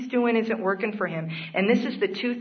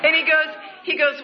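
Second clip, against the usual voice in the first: laughing through words; 8 semitones higher, 4 dB louder than usual. Real, not acted. Laughing after telling own nickname.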